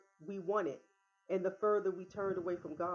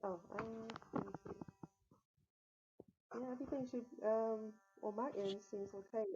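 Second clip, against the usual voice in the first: far from mic; 3 semitones higher, 6 dB quieter than usual. Real, not acted. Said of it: "You're a little low".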